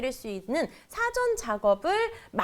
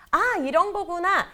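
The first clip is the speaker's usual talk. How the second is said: dawning realization; 8 semitones higher, 3 dB louder than usual. Acted. Child's moment of understanding.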